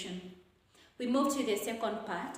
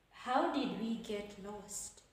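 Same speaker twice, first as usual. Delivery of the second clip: slow, soft question falling to "lost"; falling intonation; 5 dB quieter than usual. Shown as a demonstration. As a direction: ask softly, letting "lost" drop. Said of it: "this one is a falling".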